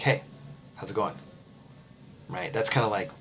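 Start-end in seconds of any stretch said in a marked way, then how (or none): 0.0-1.1 quiet, grudging hello; a flat, put-upon hey with a tight smile; annoyed greeting. Shown as a demonstration. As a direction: say hi like you'd rather not. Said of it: "or I'm annoyed".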